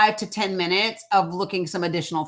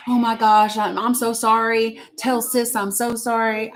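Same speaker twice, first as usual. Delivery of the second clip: imitating freaking out; 3 semitones higher than usual. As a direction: imitate someone stressing over a mistake. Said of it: "So now he's gonna freak out".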